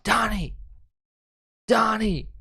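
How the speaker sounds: high-pitched mock calling of a name; acted-out high pleading calls; urgent calling. Acting her calling to Donnie.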